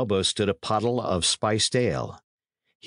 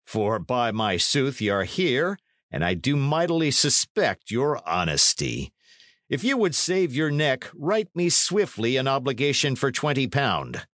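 higher-pitched lordly demand toward the end; commanding knight; 5 semitones higher than usual. Acted. Knight demanding twenty pound for a neck, commanding. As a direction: press the demand as a lord.

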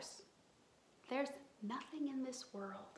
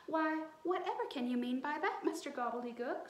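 bold as brass; 4 semitones higher, 3 dB louder, faster than usual. Acted. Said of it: "bold as brass".

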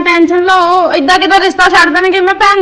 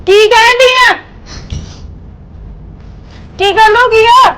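shocked; 4 semitones higher than usual. Acted. Mother shocked by the news.

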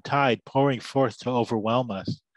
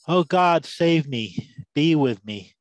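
loud, low plea to God; crying out in prayer; 5 semitones lower, 4 dB louder than usual. A narrator's reading. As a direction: call out to God in a deep preacher's voice. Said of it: "I cried out".

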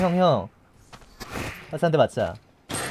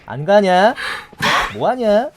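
rising anger; 3 semitones higher, 6 dB louder, slower than usual. Acted. Repeated, building at survivor.

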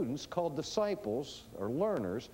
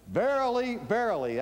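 louder, ringing first word, falling second; solemn preface; 6 semitones higher, 5 dB louder than usual. Retold or imitated. Preacher quoting the older translation, solemn proclamation. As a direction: proclaim it in old scripture style. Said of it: "Or the older translation".

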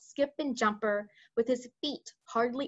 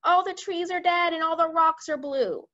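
high, louder, appalled exclamation; dismayed cry; 7 semitones higher, 5 dB louder than usual. A narrator's reading. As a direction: lament it as a rattled commander. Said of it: "he cried".

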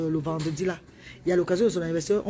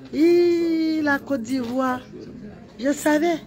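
excited cheer; 7 semitones higher, much slower than usual. Real, not acted. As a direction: call out thrilled about the cup. Excited about Ivory Coast. (acclamation aiguë et forte)

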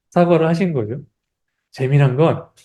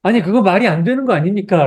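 higher-pitched, mildly indignant self-defence; mock protest; 4 semitones higher than usual. Believer defending himself against an unfair challenge, mock protest. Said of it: "변호를 하고 싶을 것 같아요".

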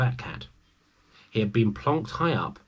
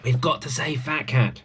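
breathy whispered plea to the friends; Billy whispers to her friends to save the cat; urgent whisper; 5 semitones higher than usual. A narrator's reading. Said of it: "said Billy".

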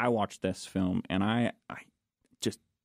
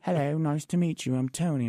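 polite British introduction, pitched up; Anthony Hopkins; 6 semitones higher than usual. Retold or imitated. Star greeting a colleague after blowing up, put-on British accent. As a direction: imitate a courteous British star, higher voice. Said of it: "the best British accent I think I've ever heard".

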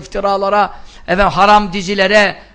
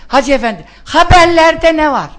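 gawking viewer; 4 semitones higher than usual. Retold or imitated. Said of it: "Ha böyle bakıyor".

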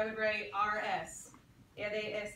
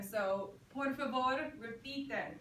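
teacher prompt. Shown as a demonstration. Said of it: "when I say it, I would like you to say it".

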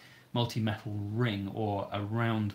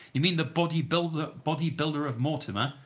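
higher and louder, asking in surprise; surprised question; 5 semitones higher, 4 dB louder than usual. Real, not acted. To a viewer, asking which bodybuilder he means, surprised. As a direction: check the name with pleased surprise.

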